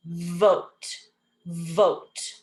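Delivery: "vote" with a held buzzing V; modelled V. Shown as a demonstration. Teacher modelling the V in a word, careful drawn "vote". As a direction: lean on the V starting "vote". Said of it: "V makes a V sound".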